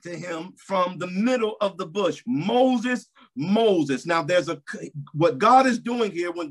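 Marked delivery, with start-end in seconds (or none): 2.2-4.0 calling out. Acted. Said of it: "God called".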